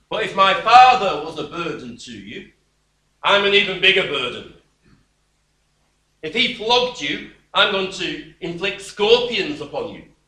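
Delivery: loud, scornful boasting threat; harsh king. Acted. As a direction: push each threat harder like a cocky young king. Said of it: "answered the people harshly".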